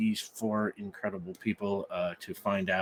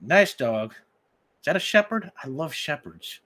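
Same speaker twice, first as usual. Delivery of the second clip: higher, louder, wary friendliness; cautious stranger; 5 semitones higher, 6 dB louder than usual. Acted. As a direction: back off while keeping it friendly. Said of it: "cautiously steps back and says".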